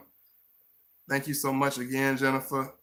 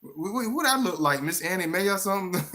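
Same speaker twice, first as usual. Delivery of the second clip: high, indignant mock old lady; teasing a viewer name in a high, huffy old-lady voice; offended old lady; 6 semitones higher than usual. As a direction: pitch up and take offense like Miss Annie Mae. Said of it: "make it be like".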